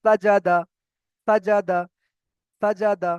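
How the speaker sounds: "সাজাদা" repeated evenly with pauses; pronunciation drill. Shown as a demonstration. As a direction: say "সাজাদা" as a model word, short last syllable. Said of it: "এমনভাবে উচ্চারণ হবে".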